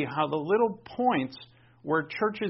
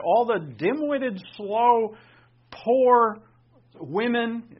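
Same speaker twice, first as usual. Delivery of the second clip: loud, higher, scornful governor voicing each insult; scornful quote; 7 semitones higher, 7 dB louder, much slower than usual. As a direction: spit out each insult with contempt. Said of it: "he literally said that".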